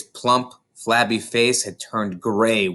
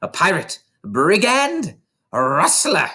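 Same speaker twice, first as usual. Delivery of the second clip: screaming accusations; 8 semitones higher than usual. A narrator's reading. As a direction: hurl each word. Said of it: "the Trunchbull screamed".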